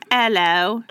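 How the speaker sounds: mock British hello, echoed back; British accent. Co-host echoing the greeting in a mock British accent. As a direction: answer in a joking British accent. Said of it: "Can you tell what accent I'm doing?".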